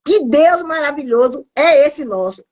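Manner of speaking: real tears in her praise; tearful praise. Real, not acted. Praising God before the church, through tears. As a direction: voice caught with emotion.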